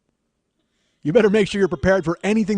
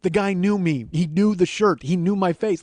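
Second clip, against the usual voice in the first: retold flustered babble, pitched slightly up; frantic babbling; 3 semitones higher, 5 dB louder, slower than usual. Husband telling his partner he was recognized, babbling. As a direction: babble it out, mildly worked up. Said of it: "I'm just babbling".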